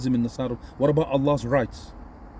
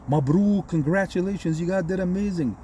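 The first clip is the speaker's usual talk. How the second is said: higher-pitched gushing, imitated praise; mock congratulations; 4 semitones higher than usual. Frenemy congratulating Egypt after a win, mock gushing.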